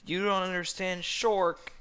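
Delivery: loud, high, put-on villain voice; melodramatic protest. A narrator's reading. Crying Farquaad protesting to Shrek, melodramatic and high. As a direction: wail it at him with mock anguish.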